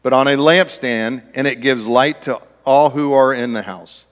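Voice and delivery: measured reading of a Bible passage; solemn scripture recitation. Acted. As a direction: read the verse with reverence. Scripture reading opening sermon.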